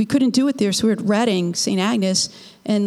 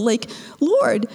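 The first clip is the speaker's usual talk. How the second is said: whispered plea; 2 semitones higher than usual. Retold or imitated. Muttering to God in church.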